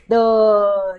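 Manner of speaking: normal talking voice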